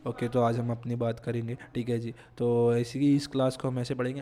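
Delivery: low, soft, drained voice as if feverish; sick with fever. Shown as a demonstration. Teacher shows students how he'd sound teaching with a fever, low and weak. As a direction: teach as though burning with a fever and out of energy. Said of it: "मैं ऐसे बात कर रहा हूँ".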